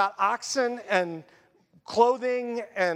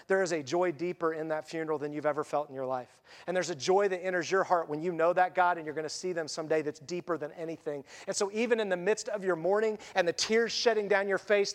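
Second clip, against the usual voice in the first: hushed and sincere about grief and hope; 4 semitones lower than usual. Real, not acted. Tender talk about funerals.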